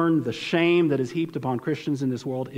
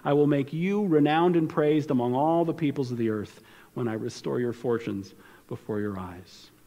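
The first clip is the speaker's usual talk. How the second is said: direct comfort. Acted. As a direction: comfort them as you read it. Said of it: "now it becomes direct comfort".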